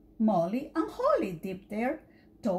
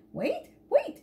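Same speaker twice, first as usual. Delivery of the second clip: high flustered call; mother in a flap; 13 semitones higher than usual. Acted. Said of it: "she flapped".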